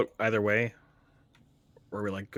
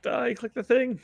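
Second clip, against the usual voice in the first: excited; 13 semitones higher than usual. Real, not acted. Urging player to click.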